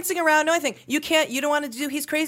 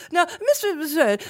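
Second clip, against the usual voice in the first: mock lecture. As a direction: talk down to him like a pompous teacher. Mock address to journalist.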